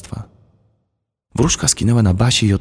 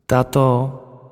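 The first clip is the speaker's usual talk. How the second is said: a thin, feeble, higher-pitched call; weaker voice; 5 semitones higher than usual. A narrator's reading. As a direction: fake being unwell. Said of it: "powiedziała słabszym już głosem". (słabszy, udawanie chorej, wyższym głosem)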